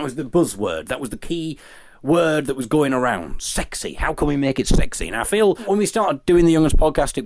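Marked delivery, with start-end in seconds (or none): 3.4-3.9 whispered. Pretend. Talking about making podcast sexy.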